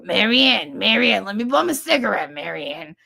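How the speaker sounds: loud wheedling call; cadging a cigarette. Retold or imitated. Nurse Pat loudly begging mom for a cigarette. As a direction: wheedle a smoke from a friend. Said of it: "she'd go".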